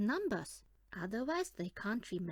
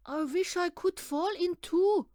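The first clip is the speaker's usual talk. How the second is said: eager little bear; 8 semitones higher, 8 dB louder than usual. Acted. Bear cub wishes aloud.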